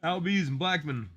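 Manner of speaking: talking through a yawn; mid-yawn, words stretched. Real, not acted. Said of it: "Sorry, I was yawning".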